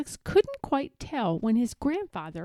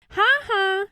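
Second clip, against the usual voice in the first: laughing; 9 semitones higher, 3 dB louder than usual. A narrator's reading. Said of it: "Anna laughed".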